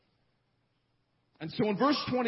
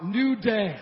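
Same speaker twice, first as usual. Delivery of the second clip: repeating louder and sillier; 3 semitones higher, 6 dB louder than usual. Real, not acted. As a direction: say "New day." again, bigger and louder. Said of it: "Say it again, louder".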